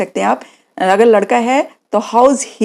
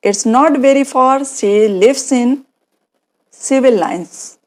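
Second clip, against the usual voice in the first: slow model sentence; 2 semitones higher, much slower than usual. Shown as a demonstration. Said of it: "तो क्या बोलेंगे".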